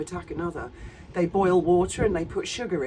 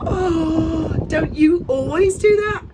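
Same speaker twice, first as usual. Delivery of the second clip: sarcastic; 9 semitones higher, 6 dB louder, slower than usual. Real, not acted. Sarcastic aside to viewers.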